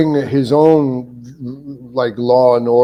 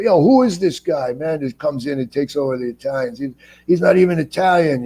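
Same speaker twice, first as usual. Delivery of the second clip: higher-pitched imitation of grumbling commenters; mock complaining fans; 4 semitones higher than usual. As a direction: voice them high, as if griping about an outsider. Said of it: "threads that I would read, the Oz threads, were like".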